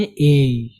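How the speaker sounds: drawn-out ए with a slight imala tilt; letter name with imala. Shown as a demonstration. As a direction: say ए long, leaning gently toward an e glide. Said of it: "इमाला करके पढ़ते हैं".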